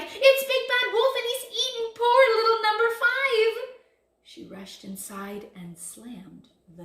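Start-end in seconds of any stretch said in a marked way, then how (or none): 0.0-3.5 high, loud duck in a rage; outraged cry. A narrator's reading. Missus Duck accusing wolf of eating number five, raging cry. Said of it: "she cried".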